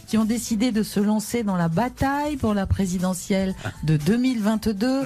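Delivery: talk-show host's lifted, emphatic presenting voice; Evelyne Thomas. Acted. Host introduces two brave presidential candidates, mock-solemn TV presenter voice. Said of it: "toujours présentée par Evelyne Thomas".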